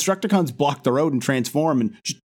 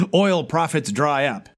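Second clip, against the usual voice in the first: mock headline; 3 semitones higher, slower than usual. Reading newspaper headlines from the show, slow mock-dramatic. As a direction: announce it like a spinning front page.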